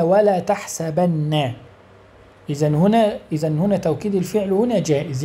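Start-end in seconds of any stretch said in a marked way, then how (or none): 0.0-1.5 ولا تحسبن very slow, nun doubled; quoting Quran slowly. Shown as a demonstration. Teacher quotes the Quran to the class, slowly. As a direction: recite ولا تحسبن with a held نّ. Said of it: "قال الله تعالى".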